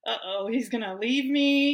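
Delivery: sudden anxious outburst, half-joking; remembering fear of losing her husband, mock panic. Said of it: "that desperation again".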